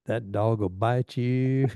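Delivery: slow, drawn-out teasing warning; slow teasing echo. Retold or imitated. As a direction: draw it out like an old inside joke. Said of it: "he'd go".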